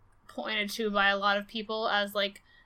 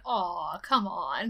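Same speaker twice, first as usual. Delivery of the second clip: lower, drawn-out mock groan; groaning protest; 4 semitones lower, much slower than usual. Retelling how the room took the comedian's joke, groaning protest. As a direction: imitate a let-down audience.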